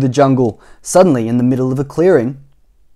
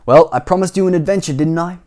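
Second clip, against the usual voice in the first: higher, brighter take that misses the character; wrong voice; 4 semitones higher than usual. Shown as a demonstration. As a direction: slip out of the character voice. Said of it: "Sorry, that wasn't his voice".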